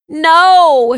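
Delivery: high, loud dismayed shout. A narrator's reading. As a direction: yell it in despair. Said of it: "shouted Anya".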